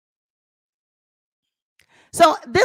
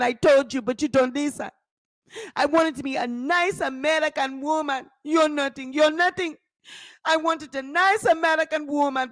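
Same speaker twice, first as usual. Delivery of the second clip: a hint of a nagging husband; lightly voiced scolding husband. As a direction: blame her for not listening.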